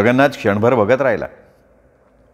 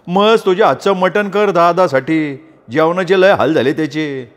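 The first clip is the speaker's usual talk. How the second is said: higher, hearty voice of Sopan; hearty farmer friend; 6 semitones higher than usual. Acted. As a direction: boss the wife cheerfully for his friend. Sopan instructs his wife. (बायकोला हौसेनं सांगणारा सोपान)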